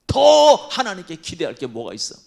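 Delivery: loud scornful jab; wife's scornful shout. Retold or imitated. Job's wife shouting at her suffering husband. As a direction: fling the question at him in scorn. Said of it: "그 부인이".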